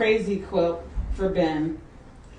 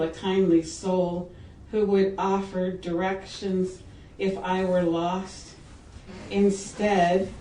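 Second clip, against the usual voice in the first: measured, deliberate verse recital; poem reading. Acted. Poet reading A Spring Ride to an audience, measured recital. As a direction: read each line evenly, with space after it. Reads her poem aloud.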